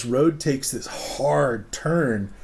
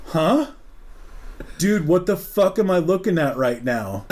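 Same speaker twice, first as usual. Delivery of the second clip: confused huh; 4 semitones higher than usual. Retold or imitated. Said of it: "And I'm like".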